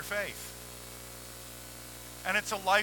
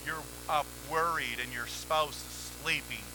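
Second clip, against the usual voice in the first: ordinary talk, nothing marked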